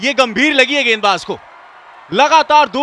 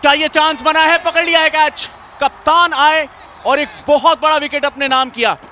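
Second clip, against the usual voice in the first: excited cricket commentary; 6 semitones higher than usual. Real, not acted. Catch taken, commentator calls it.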